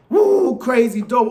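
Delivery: high loud celebratory woo; a sudden cheering woo; excited whoop. Retold or imitated. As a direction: whoop like the team just won. Celebrating the Giants win.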